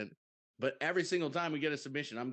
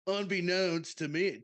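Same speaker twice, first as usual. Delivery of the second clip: usual speaking voice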